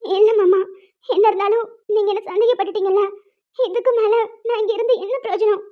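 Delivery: tearful, hurt refusal; crying. Acted. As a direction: refuse his apology through tears. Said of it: "அதுக்கே இவ்ளோ அழுகுற". (அழுகையோடு மறுத்தல்)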